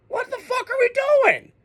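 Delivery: exasperated outburst. Real, not acted. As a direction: throw up your hands and cry out. Raging at false starts.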